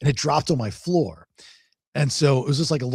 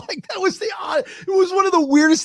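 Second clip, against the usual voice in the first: laughing while talking. Real, not acted. Still laughing in disbelief.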